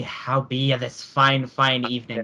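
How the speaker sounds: hammed-up Irish brogue, drawn out at the end; a playful stage-Irish greeting, slowing down; Irish accent. Friend tries a fake Irish accent to the podcast crew, hammed-up Irish brogue. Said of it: "I started to do the Irish accent".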